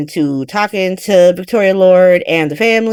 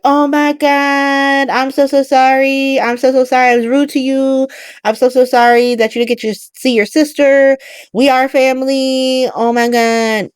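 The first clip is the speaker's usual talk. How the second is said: gushing apology; 5 semitones higher than usual. Retold or imitated.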